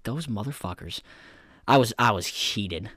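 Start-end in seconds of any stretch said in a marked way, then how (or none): 0.0-1.0 much softer, grumbling curse; seething quiet grumble at the screen; muttered curse. Retold or imitated. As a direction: mutter it under your breath. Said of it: "I was just like".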